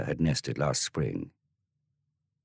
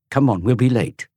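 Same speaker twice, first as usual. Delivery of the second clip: put-on high, louder boyish urging; 8 semitones higher, 7 dB louder than usual. Tom to his brothers, high loud urging. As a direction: hurry them along.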